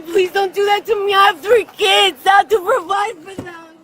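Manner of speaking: desperate shouting plea; pleading shout. Real, not acted. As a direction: shout it out, begging.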